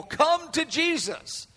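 high, stretched-out call; crying out. Acted. Preacher voices the bride's cry to people, high slow call. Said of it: "crying out to people".

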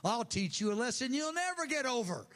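lightly acted stern threat that builds in pitch; a touch of punishing anger, rising to the last words; angry authority figure. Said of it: "We've heard that voice".

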